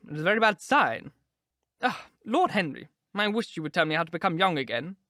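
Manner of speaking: put-on high, chattering old duchess; gushing duchess. A narrator's reading. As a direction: flutter on like a vain old society lady.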